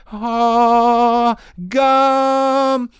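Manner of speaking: high, loud drawn-out wonder; blissed-out drawl. Retold or imitated. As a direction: stretch it out like a revelation. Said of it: "you're like".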